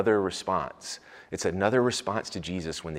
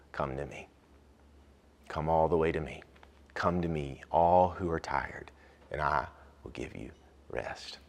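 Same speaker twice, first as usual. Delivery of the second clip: tender invitation. Acted. Quoting Jesus to tired people.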